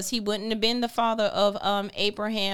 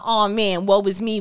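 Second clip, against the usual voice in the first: loud mock lament; loud mock self-pity; woe-is-me voice; 10 dB louder than usual. Shown as a demonstration. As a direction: wail it like a hammed-up victim. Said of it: "that's my ... voice".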